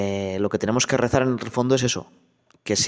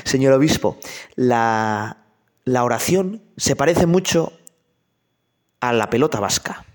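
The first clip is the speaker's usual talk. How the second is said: imitating the priest. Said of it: "no, no voy a imitar".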